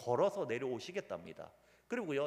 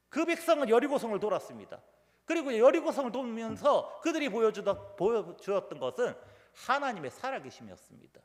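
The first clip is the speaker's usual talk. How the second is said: raised, louder pulpit delivery; emphatic preaching; 7 semitones higher, 6 dB louder than usual. Acted. Preacher retelling Jericho to the congregation, emphatic. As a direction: preach it with force.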